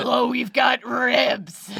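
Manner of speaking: smoker's rasp. Pretend. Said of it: "Just a smoker's voice".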